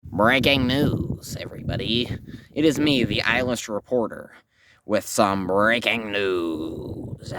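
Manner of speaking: a hammed-up breaking-news voice; news reporter. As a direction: announce it like a TV reporter, stretching the words.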